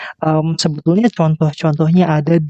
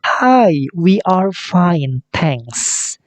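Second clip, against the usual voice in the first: friends replying; 3 semitones higher, much slower than usual. Acted. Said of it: "teman-temannya mengatakan".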